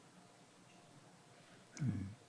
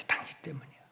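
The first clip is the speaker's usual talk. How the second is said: whispered, under-the-breath accusation; hushed blame; 4 semitones higher, 15 dB quieter, faster than usual. Acted. Wife blaming her husband, hushed accusation. Spouse's blame voiced very softly.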